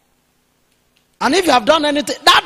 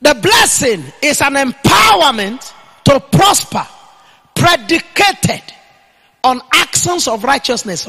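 loud, slow preaching proclamation; emphatic declaration; 3 semitones higher, 5 dB louder than usual. Real, not acted. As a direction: punch out EMPOWERMENT, stretched and loud. Preacher declares a definition to write.

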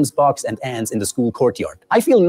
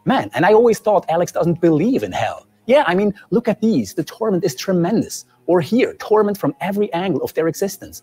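sarcasm; 5 semitones higher than usual. Acted. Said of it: "I'm fine with using sarcasm".

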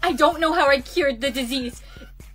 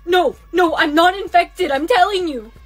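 desperate denial; 6 dB louder than usual. Acted. Pleading not infected.

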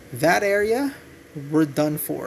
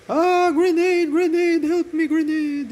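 grenade warning yell; 11 semitones higher, 5 dB louder than usual. Real, not acted. Grenade lands during online match.

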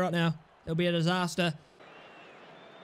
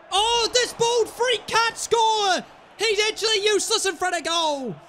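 exasperated rant; 9 semitones higher, 5 dB louder than usual. Real, not acted. Gamer ranting at his striker for missing, angry. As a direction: drag it out in outrage.

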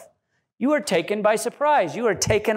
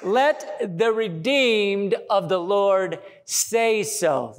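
scripture reading; much slower than usual. Shown as a demonstration. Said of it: "It says".

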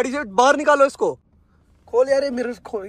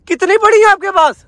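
alarmed; 7 semitones higher, 5 dB louder than usual. Real, not acted. Alarmed at cigarette in car.

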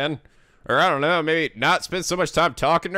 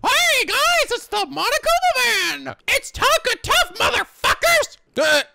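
goofy superhero voice. Acted. Announcing the Monocle Man.

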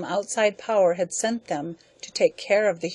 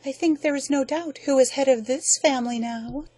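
higher, gentle but pointed; gently; 7 semitones higher than usual. Acted. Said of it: "And then she added gently".

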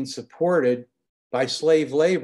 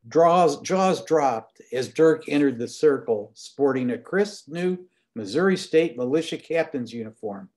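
reading aloud with voiced characters; story narration. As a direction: read the scene, giving each man his voice. Author reads a book scene aloud.

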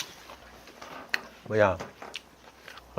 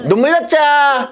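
slow, higher drawn-out cheer; toast call; 10 semitones higher, slower than usual. Shown as a demonstration. Host demonstrating his toast to guests, toast call.

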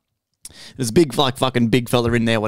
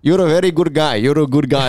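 mimicking the old man. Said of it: "he just goes".

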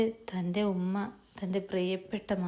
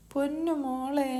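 higher, slow, drawn-out endearment; tender mother's call; 6 semitones higher than usual. Acted. Mother greeting her pregnant daughter on arrival, tender drawn-out call. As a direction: call lovingly to your darling daughter.

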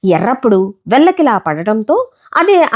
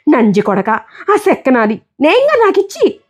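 quarrel; 4 semitones higher than usual. Acted. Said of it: "ఎర్రప్పుడు గొడవ పెట్టాడు".

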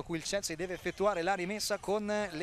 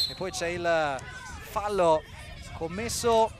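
excited commentary; 4 dB louder than usual. Real, not acted. Foul called live.

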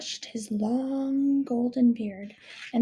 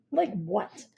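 mildly grumpy question; a touch of a grumble; grumbling. Acted. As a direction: ask it grudgingly, understated. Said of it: "Stinkbomb grumbled".

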